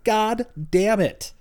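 reluctant groan. Retold or imitated. Viewer moved by hug scene.

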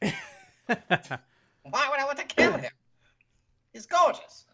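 high, dreamy mock swoon; swooning admirer. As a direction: coo it like a smitten fan. Voicing a smitten character.

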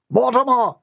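high-pitched call of his name. Acted. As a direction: call the boy through the door. Butler calling the boy.

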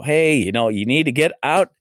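a hint of a pushy jock urging a kid; imitating jocks. Jock friends telling CJ to leave his room, mock urging. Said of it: "the jockey guys, and, uh, go".

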